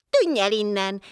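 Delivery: ordinary delivery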